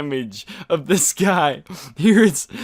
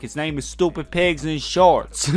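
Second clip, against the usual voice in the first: put-on street voice; 3 semitones higher, 4 dB louder than usual. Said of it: "Just throwing on the voice".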